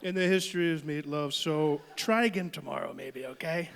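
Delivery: lightly done Trump, critiquing dinner; pompous Trump verdict on meatloaf; Trump impression. Son trashes mom's meatloaf in Trump voice. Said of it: "talk like Trump".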